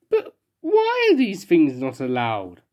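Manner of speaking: slow, weepy question; tearful. Acted. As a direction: ask it through tears. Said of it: "he burst into tears again".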